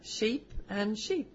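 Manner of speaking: slow mock New Zealand vowels on Sheep and sheep; co-host teasing the New Zealand vowel; mock New Zealand accent. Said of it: "Ask him to say pin and pin".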